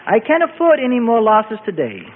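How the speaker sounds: chuckling through the grumble; laughing complaint. A narrator's reading. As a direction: laugh off the loss. Rabbi half-laughing complaint.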